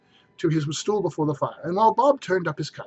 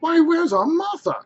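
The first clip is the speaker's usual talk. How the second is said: high, slow hearty call; cheery father; 13 semitones higher, 5 dB louder than usual. Acted. Bob calls out for Martha, higher and slow. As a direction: look around asking happily. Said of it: "cried Bob Cratchit".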